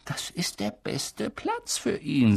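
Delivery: calm, decided, final; firm old wizard. Acted. Headmaster overruling the professor, firm and calm. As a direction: settle it firmly. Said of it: "sagte Dumbledore bestimmt".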